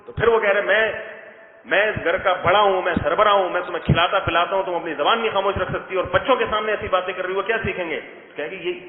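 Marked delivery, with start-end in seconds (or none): 0.6-8.0 hammed-up head of the house scolding; husband's mock rant. Husband quarrels with wife.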